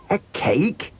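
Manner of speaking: put-on high, puzzled child's question; childlike bewildered query. A narrator's reading. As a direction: echo it back, baffled and high. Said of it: "Robin was very puzzled".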